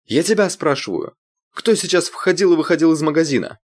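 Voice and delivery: high loud demanding yell; furious shout. A narrator's reading. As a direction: lose control, shout. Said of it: "уже не сдерживаясь".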